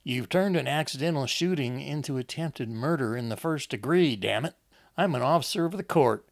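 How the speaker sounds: anger building to a loud, high peak; mounting anger. A narrator's reading. Enoch berates his wife over the shooting, anger building to a shout. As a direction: start contained, then explode on the oath. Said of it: "he'd allowed his anger".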